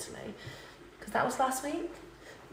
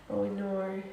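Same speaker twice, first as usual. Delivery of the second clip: Australian accent. Shown as a demonstration. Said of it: "Australian accent when I say oh no".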